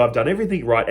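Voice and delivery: sulky, grumbling under his breath; grumpy. Retold or imitated. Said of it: "and he's grumpy".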